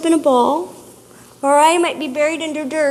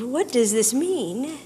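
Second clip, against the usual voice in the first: slow, lower, softer defensive question; 4 semitones lower, 5 dB quieter than usual. Retold or imitated. Partner reacting defensively to her, slow and guarded. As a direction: ask it guarded and put out. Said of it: "natural human reaction of being defensive".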